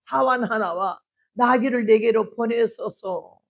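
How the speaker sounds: slow, even and unhurried; calm composure. Shown as a demonstration. Wife calmly asks husband, slow and even. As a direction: keep it steady and composed. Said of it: "요 말매무새 내가 반했어".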